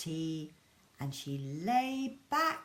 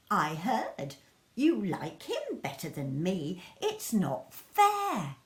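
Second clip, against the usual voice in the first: whiny sulk; 4 dB louder than usual. Acted. Laura complaining to her mum, tearful and whiny. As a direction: whine it out, nearly crying.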